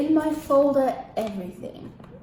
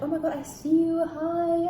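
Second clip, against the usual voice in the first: higher-pitched delighted hello; excited greeting; 6 semitones higher than usual. Retold or imitated. Friend spots her at the airport, excited greeting. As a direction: imitate a friend squealing hello.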